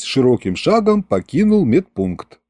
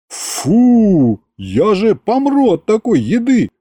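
high, whining patient voice; whiny protest; 8 semitones higher, slower than usual. Acted. Patient whines to his wife about porridge, high and disgusted.

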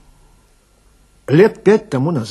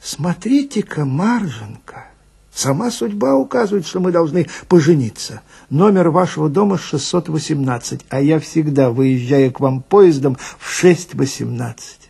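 mock surprise. Swindler charms the widow with feigned surprise, lightly. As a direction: feign amazement to charm her. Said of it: "с удивлением сказал".

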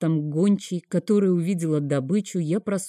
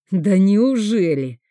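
ironic; 3 semitones higher, 6 dB louder, slower than usual. Acted. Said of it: "иронично спросил я".

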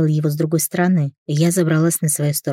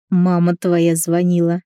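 ordinary delivery

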